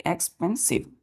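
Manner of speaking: "एक्सपेंसिव" in three separate beats, एक्स-पेन-सिव; syllable by syllable. Shown as a demonstration. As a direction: say "एक्सपेंसिव" softly, each syllable set apart. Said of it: "तीन syllable का है".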